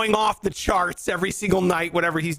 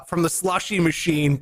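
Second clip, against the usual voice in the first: usual speaking voice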